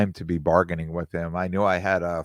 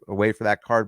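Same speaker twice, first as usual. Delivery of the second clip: ordinary talk, nothing marked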